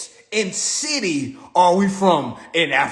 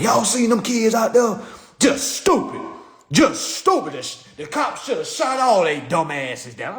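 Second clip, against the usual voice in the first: scoffing higher voice of the barbershop crowd; barbershop gossip voice; 5 semitones higher than usual. Retold or imitated. Barbershop men mocking the young protesters, scoffing. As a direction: sneer at the kids like a barber chair critic. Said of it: "They were like".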